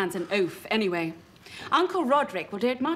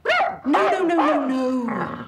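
exasperated no; 5 dB louder, much slower than usual. Acted. Director stops rehearsal.

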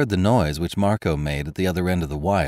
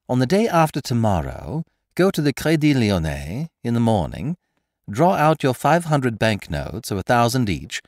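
lightly raised, mocking gentleman thief; Lupin's voice; 4 semitones higher than usual. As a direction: needle the prisoner with sly amusement. Lupin setting the exchange.

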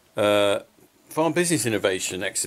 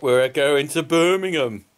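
a weak, half-hearted try at a Birmingham accent, a touch louder; 4 dB louder, slower than usual. Shown as a demonstration. Farmer vlogging to viewers, badly faking a Birmingham accent. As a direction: put on a poor Brummie twang for the road trip. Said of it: "That's not really a very good Birmingham accent".

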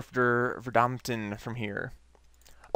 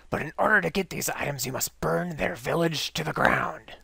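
raspy scientist voice; 2 semitones higher than usual. Acted. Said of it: "my raspy voice is killing my throat".

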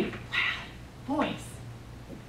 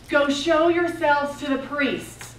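slow, higher-pitched call; mock yell back; 4 semitones higher, slower than usual. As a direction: call it back slowly, half shouting. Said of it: "and he yells back".

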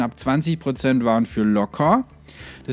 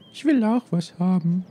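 put-on childlike voice; 9 semitones higher than usual. Voices sim child wanting food.

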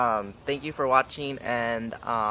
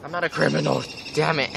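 half-laughing mock protest; 3 semitones higher than usual. Defending herself to the teacher, laughing through it. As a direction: crack up while protesting. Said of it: "I'm like".

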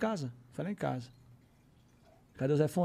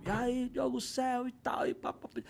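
whisper; 6 semitones higher, 6 dB quieter than usual. Retold or imitated. Reads the video's message.

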